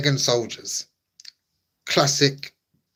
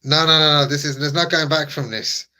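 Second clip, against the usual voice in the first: hammed-up despair; 4 semitones higher, 4 dB louder than usual. Mock heartbreak over the egg.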